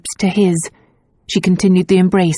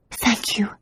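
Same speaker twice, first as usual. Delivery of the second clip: breathy relieved thanks; soft thanks; 5 semitones higher, 7 dB quieter than usual. A narrator's reading. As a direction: breathe it gratefully.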